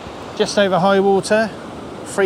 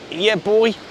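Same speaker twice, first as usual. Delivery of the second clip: excited cheer; 6 semitones higher than usual. Real, not acted. Celebrating a bite.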